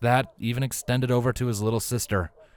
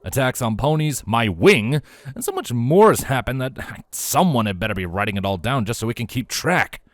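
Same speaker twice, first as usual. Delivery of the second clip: exasperated rant; 3 semitones higher, 4 dB louder than usual. Acted. Vladimir rants on.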